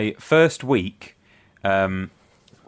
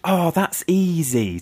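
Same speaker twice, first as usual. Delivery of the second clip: show-off remark; 7 semitones higher, much slower than usual. Retold or imitated. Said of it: "to, like, get in with these kids".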